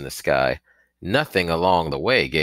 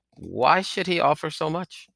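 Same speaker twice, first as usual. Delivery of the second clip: alarmed; 12 semitones higher than usual. A narrator's reading. Frightened boy.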